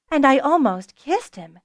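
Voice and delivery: high, loud confession; exclaimed. Acted. Tipsy Fiona blurts out her confession, high and loud. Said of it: "Fiona exclaimed".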